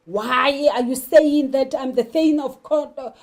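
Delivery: rising to a loud demand at of Cawdor. Acted. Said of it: "Macbeth charges at the witches and wants to know".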